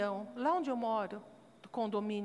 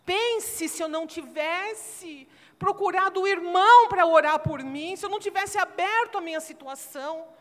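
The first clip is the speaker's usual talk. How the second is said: louder, higher preaching, building to a cry; preaching at full force; 6 semitones higher, 11 dB louder than usual. Acted. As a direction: pregar com toda a força, subindo o tom até clamar. (pregação inflamada, em voz alta e aguda)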